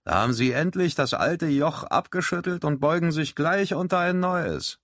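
a lightly put-on sour sailor; grumpy Grady. A narrator's reading. Grady sneers at Rehagen over cards, sour and scoffing. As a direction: scoff at the townsfolk.

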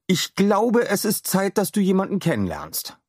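put-on a kind inventor letting a boy in on a secret; Adam voice. A narrator's reading. (freundlicher Wissenschaftler, höher gesprochen)

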